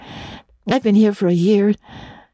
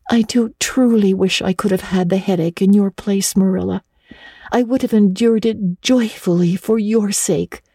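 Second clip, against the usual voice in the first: a hint of a dreamy young girl offering sympathy; Anne, earnest girl. Girl tells Marilla she'd have borne the headache, earnest. Anne's voice in the story.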